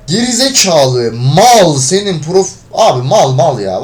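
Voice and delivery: fuming at a random teammate; slow angry insult. Real, not acted. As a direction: spit out each word slowly in disgust.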